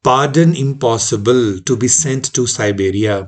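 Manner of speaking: "Pardon impossible" together, then "to be sent to Siberia"; original comma reading. Shown as a demonstration. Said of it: "तो उन्होंने सिर्फ comma change किया".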